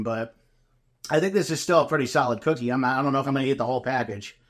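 speaking around food; chewing while talking. Real, not acted. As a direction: mouth partly full. Seen 1: Bites cookie at -1.0; cheek bulges while talking until about 3.1.

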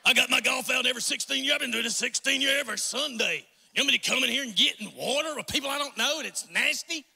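put-on grumbling golfer in a Dawsonville accent. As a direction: play a reluctant churchgoer, Dawsonville twang. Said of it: "I'm speaking Dawsonville".

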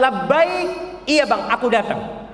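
high, drawn-out answering call; acted dutiful eagerness; eager wife. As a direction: respond at once, sing-song and willing.

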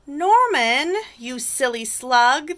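mildly exasperated storybook snails; lightly cross group of snails; scolding cry. A narrator's reading. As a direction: call out a telling-off, starting high. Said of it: "they cried".

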